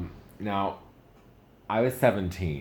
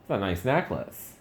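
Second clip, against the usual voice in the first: mock gushing; 4 semitones higher, 4 dB louder than usual. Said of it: "I was like".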